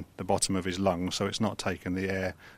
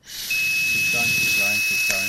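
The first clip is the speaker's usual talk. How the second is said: loud, insistent coaching; urging on; 4 semitones higher, 7 dB louder, much slower than usual. Shown as a demonstration. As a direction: push him to keep blowing. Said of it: "blow long and hard through the device".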